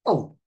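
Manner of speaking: short imitated yelp of pain; mock pain cry. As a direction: cry out as if just hit. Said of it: "if you hit somebody".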